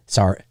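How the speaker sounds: "sorry" with a rounded Canadian O, like SORE-ee; Canadian-style "sorry", round first vowel. Real, not acted. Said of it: "that was very Canadian".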